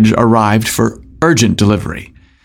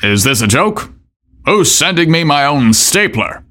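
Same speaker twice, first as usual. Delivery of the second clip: angry boss; 3 semitones higher than usual. Acted. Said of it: "exclaimed in an aggravated voice".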